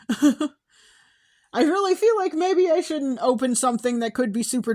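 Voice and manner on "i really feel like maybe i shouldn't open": slow, giggly nervous words; laughing while talking. Real, not acted. Nervous laugh about stressful card.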